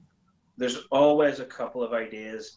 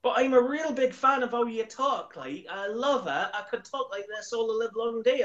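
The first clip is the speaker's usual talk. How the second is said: higher-pitched West Country chat; Bristolian accent; 8 semitones higher than usual. Shown as a demonstration. Showing the host he could talk Bristolian all day, in West Country accent. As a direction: ramble on with a Bristol burr, pitched up. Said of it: "That was kinda good".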